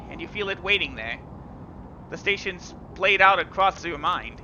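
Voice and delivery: measured, even storyteller read; story narration. A narrator's reading. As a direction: read the game text like an audiobook. Reads visual novel narration.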